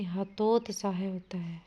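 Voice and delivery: breathy aside with the answer; whispered correction. Shown as a demonstration. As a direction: whisper the right form. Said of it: "हतोत्साहित नहीं".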